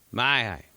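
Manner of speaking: "My eye" as two words mushed into one; blended words. Retold or imitated. Buddy answers where the guys are, "My eye" garbled together. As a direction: imitate garbling "My eye" into a non-word. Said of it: "they're blended together".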